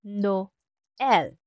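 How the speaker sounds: "Noel" in two clear syllables, no-el; vowels separated. Shown as a demonstration. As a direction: say "Noel" slowly, keeping o and e apart. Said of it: "mabigkas separately at hindi mag-blend".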